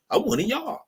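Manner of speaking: high mock voice claiming belonging; mocking squeak. Mocking immigrants who join whiteness, in a high squeak. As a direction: squeak it out, eager to fit in. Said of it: "punched white supremacy card".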